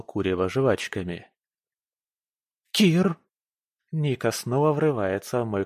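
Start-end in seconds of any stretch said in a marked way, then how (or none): 2.7-3.2 calling out. Acted. Nika bursts in calling him.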